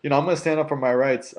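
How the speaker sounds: a retold stand for his rights; defiant retort. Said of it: "I'm like".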